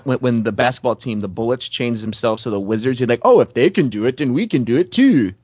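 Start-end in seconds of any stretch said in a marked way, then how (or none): 3.2-5.3 sing-song mock Indian voice, swooping pitch; lightly put-on caricature Indian accent. Comic voicing a team wanting a change, mock Indian voice. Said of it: "That's my Indian voice".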